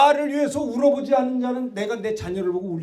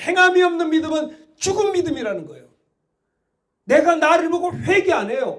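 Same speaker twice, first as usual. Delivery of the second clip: raised, forceful sermon voice; fiery preaching; 3 semitones higher, 3 dB louder than usual. Acted. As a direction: drive the rebuke home to the congregation.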